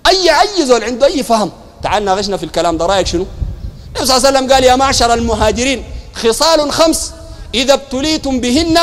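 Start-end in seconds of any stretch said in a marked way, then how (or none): 4.6-8.8 slow, measured formal quotation; hadith recitation. Retold or imitated. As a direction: declaim it solemnly with lengthened vowels. Quoting the Prophet's saying formally.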